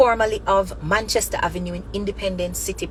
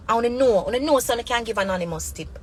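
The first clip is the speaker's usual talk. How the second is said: normal talking voice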